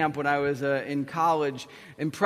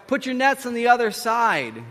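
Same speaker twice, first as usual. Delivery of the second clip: raised, higher-pitched call; crying out; 6 semitones higher, 4 dB louder than usual. Acted. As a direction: call across the water from shore. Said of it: "he cries out".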